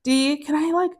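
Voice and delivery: polite, halting request; tentative request. Retold or imitated.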